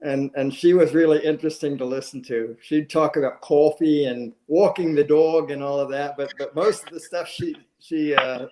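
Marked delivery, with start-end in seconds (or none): 3.4-5.5 New York vowels on coffee and dog; lightly imitated New York accent. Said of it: "learned English was in New York".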